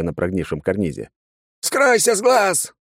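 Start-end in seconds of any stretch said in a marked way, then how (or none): 1.6-2.7 very high, loud, slow shrieking; shrill shriek. A narrator's reading. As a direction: squeal in terror at the demon. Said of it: "заверещал отец".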